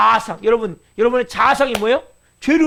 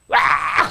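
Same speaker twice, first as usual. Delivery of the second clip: brief mock yell at usual volume; imitated outburst yell; much slower than usual. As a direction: imitate someone blowing up with a cry. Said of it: "소리가 지르죠". (왁 하고 소리 지르는 흉내)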